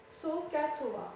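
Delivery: "sohcahtoa" slowly split as soh, cah, toa; three separate syllables. Shown as a demonstration. Teacher showing the magic formula's three syllables, slowly separated. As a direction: spell out "sohcahtoa" in three slow beats. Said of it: "avec trois syllabes".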